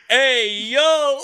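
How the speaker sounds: loud, high toddler imitation; toddler's yelled catchphrase. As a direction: yell it as a toddler, half laughing. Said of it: "when the kid yelled".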